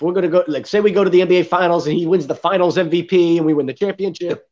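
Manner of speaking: talking through a burp. Real, not acted. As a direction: soda and beer burps. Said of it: "I'm burping over here".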